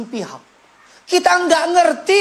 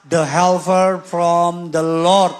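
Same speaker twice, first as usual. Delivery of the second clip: slow, weighty announcement of the title; slow sermon title; 6 semitones lower, slower than usual. Real, not acted. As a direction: proclaim the sermon title slowly. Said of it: "saya beri judul khotbah".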